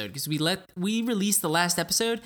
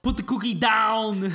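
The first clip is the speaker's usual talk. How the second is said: slow, loud, higher mock Schwarzenegger yell; Arnold-style shout; 6 semitones higher, 5 dB louder, slower than usual. Host answers the Arnold bit with a slow, loud mock Schwarzenegger command. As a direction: command it like a movie muscleman.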